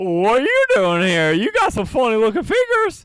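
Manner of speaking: high, swooping giant bird creature voice. Voicing an emu questioning the party: emu creature voice. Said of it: "the emu closest to you says".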